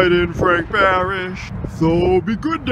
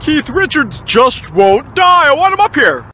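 mock lament; 7 semitones higher, 8 dB louder than usual. God complains, loud.

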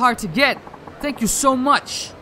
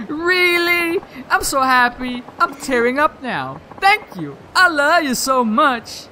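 put-on higher, gushing thank-you from the girlfriend; overjoyed, almost in tears; lightly voiced touched girlfriend; 4 semitones higher, slower than usual.

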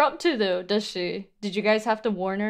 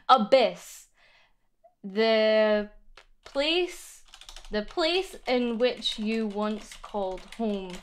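poem reading; slower than usual. Acted. Reading poem draft aloud.

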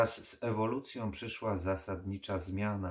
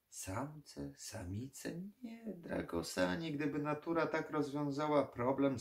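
airy, high, scoffing reply; mocking condescension; 8 semitones higher than usual. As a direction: toy with the listener, raised pitch. Vampire mockingly answers the necromancer.

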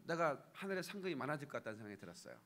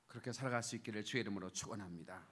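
low, softer benediction; pastoral blessing; 8 semitones lower, 5 dB quieter, faster than usual. Real, not acted. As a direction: close the point with a lowered, solemn blessing. Closing blessing.

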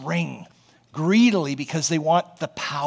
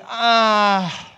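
really jumping much higher in doubt; mock disbelief; 5 semitones higher, much slower than usual. Preacher mimicking us doubting God, mock incredulous. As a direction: scoff as if you never heard it. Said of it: "We say".

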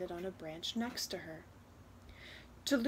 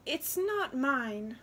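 slow, higher, shy admission; shy girl; 4 semitones higher, 3 dB louder, slower than usual. Acted. Girl confesses the wish is not hers, shy. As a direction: admit it shyly, taking your time. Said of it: "Luba said shyly".

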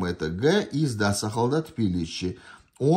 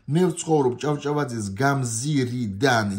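fast test-item reading; 3 semitones higher, much faster than usual. Shown as a demonstration. Teacher reading a Georgian test item fast. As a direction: rattle off the Georgian line quickly.

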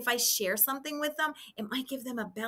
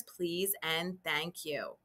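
softer, slower thank you; gentle polite thank you; 5 semitones lower, 5 dB quieter, slower than usual. Shown as a demonstration. Teacher models polite manners for kindergarteners, gently. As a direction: say thank you kindly and slowly. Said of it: "Don't forget those manners".

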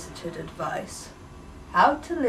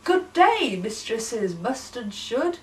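calling out; 2 semitones higher, 3 dB louder than usual. Acted. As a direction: call across to the passing ladies.

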